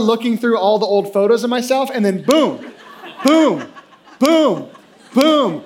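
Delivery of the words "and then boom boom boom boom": each boom louder and higher; building excitement. Real, not acted. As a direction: punch every boom like a reveal. Finding Muppet smile photos.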